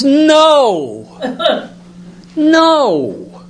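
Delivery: high, loud no with a laugh in it. Retold or imitated. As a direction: laugh it off kindly, pitched high. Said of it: "And Dowling goes".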